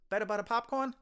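imitating a Boston popcorn vendor; Boston accent. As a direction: echo the order back in a thick Boston voice. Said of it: "And he goes".

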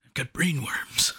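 slow, lightly put-on actor voice; dim-witted mock confession; Dave Bautista. Mocking an actor for his friend, slow put-on voice. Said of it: "doing your Dave Bautista voice".

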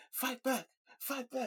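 high-pitched taunting cry; high, squeaky mock urging; mock goading. Acting out attackers goading her.

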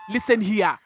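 mock African accent, deliberate; bad African accent. Co-host quoting a threatening film line, bad African accent. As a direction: lightly parody a put-on African accent. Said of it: "Every time he put on that accent".

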